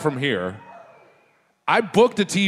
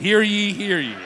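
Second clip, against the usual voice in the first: town crier; 3 semitones higher than usual. Pretend. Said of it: "John Adams' famous phrase".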